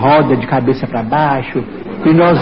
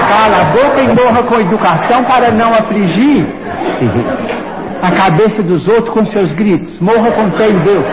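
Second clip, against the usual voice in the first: higher-pitched, emphatic mock reprimand; retold scolding; 3 semitones higher than usual. Spirit telling screaming passenger to hush, retold scolding. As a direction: tell him off, acting it out.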